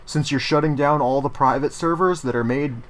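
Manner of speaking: mock fan request. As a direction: ham up a fan begging for real servers. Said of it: "people were like".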